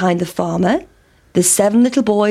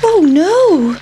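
high little pancake gasp of worry; 9 semitones higher, 5 dB louder than usual. A narrator's reading. Pancake in the pan, worried about being eaten. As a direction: squeak it out like a scared pancake. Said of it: "thought the pancake".

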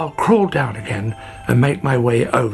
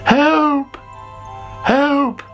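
calling for help; 14 semitones higher than usual. A narrator's reading. Sammy calling anyone for help in alarm. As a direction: call out as if in trouble. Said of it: "called Sammy".

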